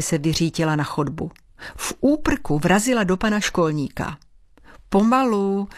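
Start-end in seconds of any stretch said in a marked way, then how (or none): 4.9-5.7 smiling caution. A narrator's reading. Caretaker to the rushing girl, smiling slow down call. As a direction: call out kindly to the running girl. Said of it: "řekl jí s úsměvem".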